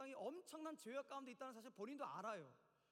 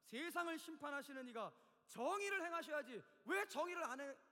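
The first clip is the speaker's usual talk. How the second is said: dramatic scripture reading; 5 dB louder than usual. Acted. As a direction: read scripture as an impassioned challenge. Reads Abraham's protest from scripture. (따지듯 힘주어 성경 낭독)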